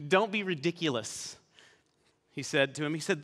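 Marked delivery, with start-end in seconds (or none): 0.1-1.4 mock chuckle into a dismissal; scoffing laugh. Saul brushing off young David, scoffing.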